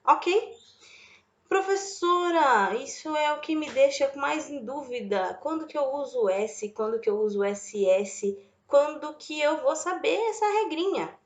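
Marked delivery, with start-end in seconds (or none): 1.5-11.1 student's question. Pretend. Teacher voices a student's question.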